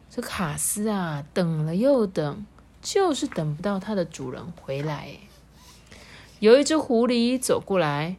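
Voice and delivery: animated storytelling with drawn-out key words; lilting, measured storybook delivery; story narration. A narrator's reading. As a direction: read slowly and expressively to children. Reads a story to children.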